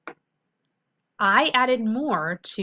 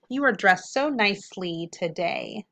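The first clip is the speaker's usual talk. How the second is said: slow example sentence. Shown as a demonstration. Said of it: "if I had the word nicely".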